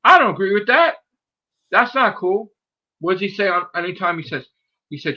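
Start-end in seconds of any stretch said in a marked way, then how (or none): 0.0-2.5 high, loud betrayed fan; mock outrage. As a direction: yell at your idol, hurt and angry. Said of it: "I'm like".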